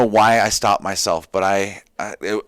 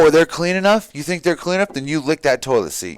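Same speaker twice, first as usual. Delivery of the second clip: mock drill sergeant; 3 semitones higher than usual. Drill sergeant berating recruits.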